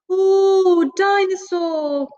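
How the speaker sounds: high, slow, amazed ooh; excited ooh. Acted. Toddler spotting a big dinosaur in the shop window, amazed. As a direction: gasp it out in wonder. George sees toy in window.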